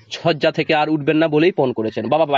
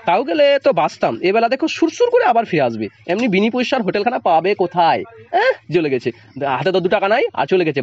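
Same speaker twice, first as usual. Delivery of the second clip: snarling father; 3 semitones higher than usual. Acted. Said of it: "দাঁত খিচিয়ে বললেও".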